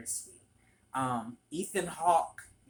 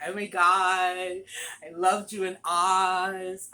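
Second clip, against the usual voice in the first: gushing fan; 6 semitones higher, 11 dB louder, slower than usual. Retold or imitated. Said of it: "gay men would come up to him".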